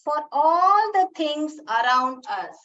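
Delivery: put-on slow, word by word for children; slow poem recitation. Shown as a demonstration. Teacher reciting the poem line slowly to the class. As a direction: recite each word slowly so kids follow. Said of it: "पहला line में क्या बोल रहे हैं".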